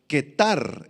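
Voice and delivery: ketar con k dura y acento en la á; palabra aramea. Shown as a demonstration. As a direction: pronuncia ketar, acento en la segunda a. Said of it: "con Q y acento en la A". (ketar, como "ketár")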